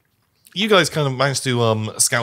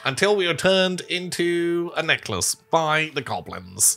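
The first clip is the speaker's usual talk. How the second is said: squeaky rat voice; 5 semitones higher than usual. Acted. GM voices the rats.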